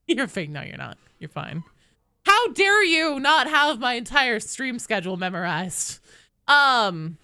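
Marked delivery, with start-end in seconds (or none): 2.3-6.0 higher-pitched playful scolding; hammed-up indignation, easing off toward the end; mock outrage. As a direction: pretend to be affronted.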